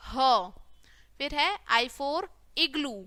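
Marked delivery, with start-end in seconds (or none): 0.1-0.5 ह as "huh", breath plus short vowel; letter sound demo. Shown as a demonstration. Teacher showing the sound of H, letter sound demo. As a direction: sound out ह on its own. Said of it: "क्या बोलेंगे".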